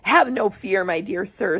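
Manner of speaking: gentle, settling tone; calm reassurance. Acted. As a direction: soothe the frightened old man. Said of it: "said Mister Wonka calmly".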